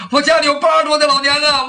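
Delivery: high, loud wail stretching 家; whining thief. Acted. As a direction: plead an old mother to be spared. Thief pleads with a false story. (小贼高声哭诉“我家里有八十多的老娘啊”)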